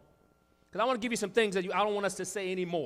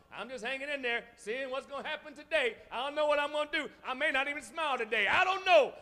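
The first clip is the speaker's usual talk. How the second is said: mock aimless Christian; 7 semitones higher than usual. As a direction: imitate a drifting, unsure believer, half-mocking. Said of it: "like a puppet".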